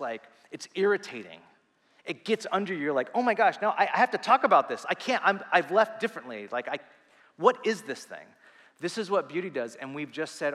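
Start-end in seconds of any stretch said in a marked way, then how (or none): 3.1-8.3 loud, higher, worked-up reaction; mock overwhelmed, raised and urgent; overwhelmed outburst. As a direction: act out being too stirred to keep it in. Acting out someone struck by beauty.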